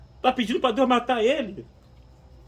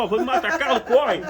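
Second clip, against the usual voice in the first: loud, laughing warning to flee; half-laughing shout at a friend to run; laughing mock alarm; 6 dB louder than usual. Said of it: "até eu falaria, Carlos, fala". (alerta rindo para o amigo correr)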